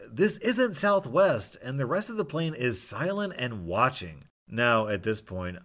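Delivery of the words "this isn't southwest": much higher, louder, slow retort; yelling back. Retold or imitated. Flight attendant yelling back at the drunk passenger, high loud retort. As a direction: snap it back at full volume. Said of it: "The attendant is yelling back".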